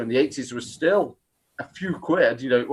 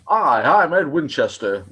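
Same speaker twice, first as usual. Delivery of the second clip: news reporter voice. Retold or imitated. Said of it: "the one I always remember is".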